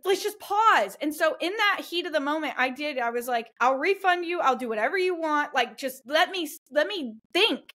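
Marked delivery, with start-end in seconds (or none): 0.1-1.0 high-pitched, pleading mock apology; cornered apology. Breeder retelling apology to angry buyers, cornered. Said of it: "I'm just cornered". 3.6-7.7 higher-pitched, placating re-enactment; cornered pleading. Retold or imitated. Breeder retelling promises to angry buyers, cornered pleading. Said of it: "I felt so cornered".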